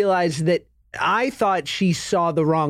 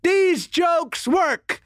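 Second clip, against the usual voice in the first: mock indignant; 5 semitones higher, slower than usual. Dad retorts to son.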